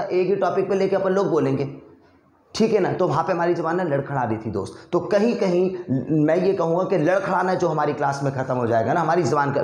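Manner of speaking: usual speaking voice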